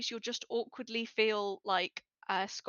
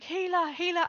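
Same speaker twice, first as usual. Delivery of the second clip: calling out; 9 semitones higher, 5 dB louder than usual. Retold or imitated. Downed players calling for help.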